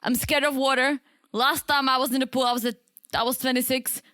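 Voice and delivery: lightly imitated accent, a little Ukrainian-sounding; Michael's accent. Swimmer confessing fear of water, in a lightly imitated Ukrainian-like accent. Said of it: "I'm doing Michael's accent".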